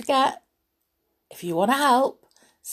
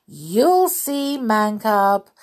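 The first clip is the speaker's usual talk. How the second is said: sly monkeys; 3 semitones higher, 5 dB louder, much slower than usual. Acted. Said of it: "the monkeys cried".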